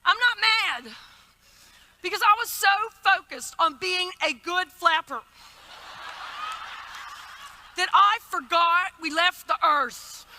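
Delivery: a touch of the relieved passenger; mild impression of the woman. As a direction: passenger confessing to the flight attendant, lightly voiced. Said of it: "and she goes".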